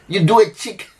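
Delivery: a laugh breaking into the words; amused, laughing as you say it. Real, not acted. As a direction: chuckle through it, amused at the idea. Mocking a quick cheek kiss.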